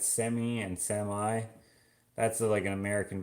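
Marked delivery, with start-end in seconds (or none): 0.0-1.4 "semi" as "SEM-ee", then "SEM-eye"; two pronunciations contrasted. Shown as a demonstration. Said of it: "American versus Canadian type way of saying it".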